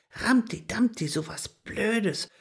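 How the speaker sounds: tiny, breathless whispered grumble; delicate whisper. A narrator's reading. Hedgehog girl annoyed at losing something, tiny whisper. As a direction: whisper it crossly like a tiny creature. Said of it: "fuhr das zarte Stimmchen weiter fort".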